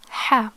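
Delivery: "ha" said with a breathy Arabic h and open a; demonstrated pronunciation. Shown as a demonstration. Teacher shows how fatha makes it "ha", demonstrated pronunciation. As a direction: say "ha" as a sounded-out Arabic syllable. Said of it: "so it's pronounced".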